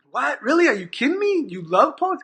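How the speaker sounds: asking in retold amazement, pitch up; retold disbelief. Retold disbelief at student's answer.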